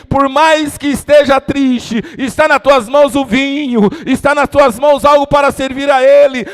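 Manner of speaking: loud, building sermon delivery over music; full-force preaching. Acted. Preacher telling the grieving congregation the king sees them, loud. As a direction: preach it out to the whole church.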